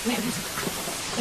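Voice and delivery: urgent, slow whisper; hushed search for the bomb. Acted. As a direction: whisper it so no one hears. Hunting for the bomb.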